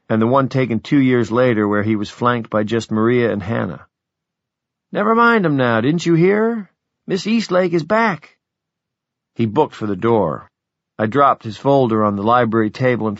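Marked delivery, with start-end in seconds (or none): 4.9-8.4 high, eager urging, slowing on the news; excited. Acted. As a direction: hurry him along with joy.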